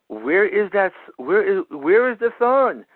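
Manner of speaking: a touch of fatherly worry; understated anxious questioning, with a repeated start; mildly anxious. Retold or imitated. Father asking his hurt son about the thorn, mildly anxious. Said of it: "very anxiously".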